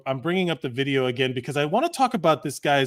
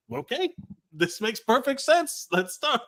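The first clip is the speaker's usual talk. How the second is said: put-on sarcastic drunk; 8 semitones higher, 3 dB quieter, slower than usual. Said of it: "you know, like".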